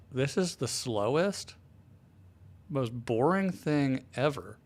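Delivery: slow, drawn-out mock complaint; retold exasperated boredom. Man recalling his first hour of a slow movie, drawn-out boredom. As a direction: drag each word out in exaggerated boredom.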